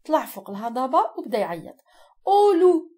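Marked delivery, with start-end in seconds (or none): 2.2-2.9 high, loud cry for help; shepherd's cry. A narrator's reading. Teacher reading to the class the shepherd crying wolf, loud high yell. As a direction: yell it like the shepherd raising the alarm. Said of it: "et hurla".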